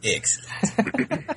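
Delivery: slow, drawn-out, lightly villainous Excellent; Mister Burns voice. Retold or imitated. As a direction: stretch it out like a scheming old tycoon. Finishing the Mister Burns bit.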